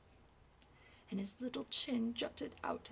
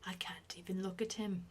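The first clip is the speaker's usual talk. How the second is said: gasped. Acted. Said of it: "he gasped".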